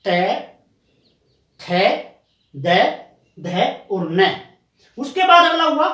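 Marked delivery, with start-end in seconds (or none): 0.0-4.3 त थ द ध न shown slowly, one at a time; dental letters demo. Shown as a demonstration. Teacher showing students the dental letters. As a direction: let them see the tongue on the teeth for त, थ, द. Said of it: "जैसे देख सकते हैं".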